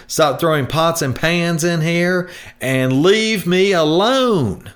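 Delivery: a fed-up, exhausted appliance yelling to be left alone; screaming dishwasher. Acted. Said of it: "they would probably start screaming out".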